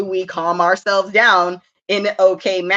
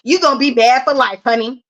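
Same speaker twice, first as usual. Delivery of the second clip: put-on higher, earnest talk to the kids; motherly lecture; 5 semitones higher, 4 dB louder than usual. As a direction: lecture a child with love. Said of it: "I be telling my kids".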